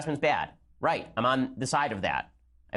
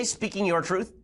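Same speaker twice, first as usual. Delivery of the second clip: mocking quote; 6 semitones higher, slower than usual. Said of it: "when you say".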